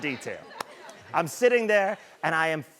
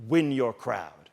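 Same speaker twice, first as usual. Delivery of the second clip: lower, slow, deadly serious coaching; Ray Lewis intensity; 5 semitones lower than usual. Retold or imitated. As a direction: drop the voice and press it home slowly. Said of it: "he goes".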